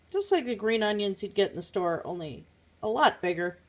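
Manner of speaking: talking with fibre stuck in the mouth; slight mouth obstruction from wool. Real, not acted. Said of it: "have alpaca wool in my mouth".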